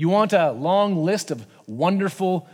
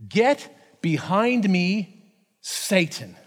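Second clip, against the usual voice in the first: stern rebuke; much slower than usual. Acted. Jesus rebukes Peter, quoted.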